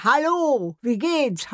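high, loud parrot call "Hallo"; parrot greeting. Retold or imitated. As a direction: squawk it like a shop parrot. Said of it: "plötzlich ruft mir einer".

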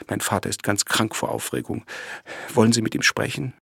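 on the verge of tears, upset; tearful. Acted. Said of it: "die bei seinem Anblick in Tränen ausbrach".

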